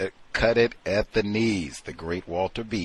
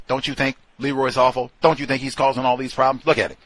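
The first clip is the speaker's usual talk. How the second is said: mock complaint; 5 semitones higher, 7 dB louder, faster than usual. Mocking coworkers badmouthing Leroy.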